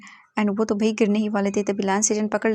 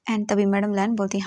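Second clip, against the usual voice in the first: plain reading voice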